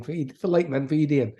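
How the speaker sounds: Doric greeting, pitched slightly up; Aberdeen Doric. Shown as a demonstration. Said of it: "we say fit like in Aberdeen".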